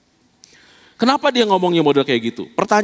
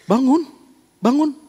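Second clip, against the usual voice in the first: urging command; 6 semitones higher, slower than usual. Pretend. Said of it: "Terus Tuhan bilang".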